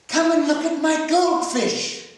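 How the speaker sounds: put-on a small girl tugging for attention; little girl voice. Little girl begs Ralph.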